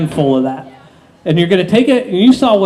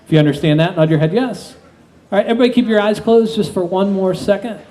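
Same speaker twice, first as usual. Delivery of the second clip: hypnotist induction. Acted.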